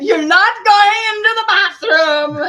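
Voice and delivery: high, loud parental telling-off; sharp mom warning, pitched high and loud; mock scolding. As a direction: put your foot down with the kid. Scolding eleven-year-old son.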